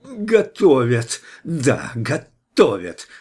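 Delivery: медленный, яростный выкрик в лицо; проорать, брызжа слюной; злобный крик. A narrator's reading. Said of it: "заорала ему в лицо". (кричит в лицо Ивану, брызжа слюной, яростно)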